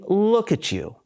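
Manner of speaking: mildly mocking disbelief; lightly scornful, rising on the closing question; sarcastic. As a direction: put a touch of sarcasm on it. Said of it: "He was sarcastic".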